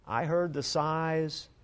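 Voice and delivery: put-on a hushed child explaining the sigh; a girl telling her mother softly why she chose the puppy; little girl voice. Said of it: "she said".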